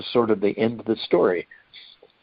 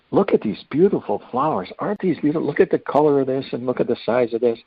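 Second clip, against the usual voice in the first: proud delight; 6 semitones higher than usual. Retold or imitated. Patient showing off flowers.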